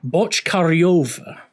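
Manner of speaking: "Bochkaryova" with a yo sound before the final va; careful researched pronunciation. Shown as a demonstration. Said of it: "I believe it's actually pronounced".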